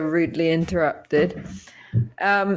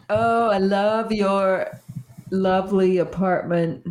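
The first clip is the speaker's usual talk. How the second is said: put-on American accent. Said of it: "Why do you sound American suddenly?".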